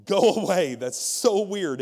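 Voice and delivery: imitating a preacher humoring someone away; loud, offhand mock agreement to get rid of her; dismissive agreeing. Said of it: "just kind of agreeing with her so that she would leave".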